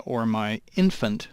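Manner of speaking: slow, leaning on "infant"; stress on infant. Real, not acted. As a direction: give "infant" a deliberate push. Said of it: "and I emphasize the word infant".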